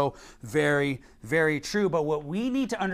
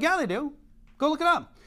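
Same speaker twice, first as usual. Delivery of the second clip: mock insistent retort; 9 semitones higher, faster than usual. Preacher retells his retort.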